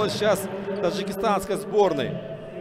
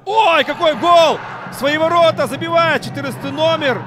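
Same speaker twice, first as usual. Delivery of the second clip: much higher, louder excited shout; goal call; 9 semitones higher, 7 dB louder than usual. Real, not acted. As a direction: yell the goal in delight. Own goal scored.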